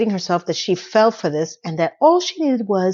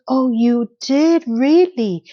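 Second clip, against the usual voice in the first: slow, drawn-out reaction, higher pitched; mock surprise; 4 semitones higher, much slower than usual. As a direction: act out a stretched, delighted-sounding disbelief. Retelling Miranda's surprised, teasing reply.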